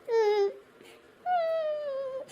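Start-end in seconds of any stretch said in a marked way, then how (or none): 1.3-2.2 teary hum. Acted. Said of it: "ನಗ್ತೀಯಾ, ಅಳ್ತೀಯಾ?".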